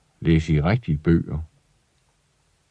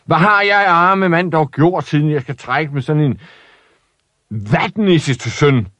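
self-pitying father; 7 semitones higher than usual. Acted. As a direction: moan dramatically about his lot. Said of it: "råbte hans far".

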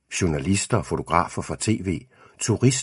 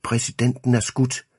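high, drawn-out alert, no real shouting; radioed shout; 6 semitones higher than usual. A narrator's reading. Agent reporting the shooting over an earpiece, restrained high call. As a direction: announce the emergency slowly at raised pitch. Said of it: "bliver der råbt i min øresnegl".

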